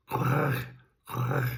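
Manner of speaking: raspy, hissing drake quack imitation. Shown as a demonstration. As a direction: quack with a rattle in the throat like a drake. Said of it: "and then the drake".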